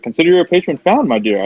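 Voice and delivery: grand declaration. Acted. Noble grandly offers patronage.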